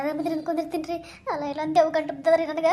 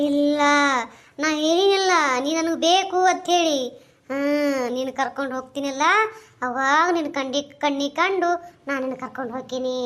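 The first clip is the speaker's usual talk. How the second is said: menacing ghost; 5 semitones lower than usual. Acted. The ghost warning the woman she would die of fright, low hushed menace. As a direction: threaten her in a low, hushed voice.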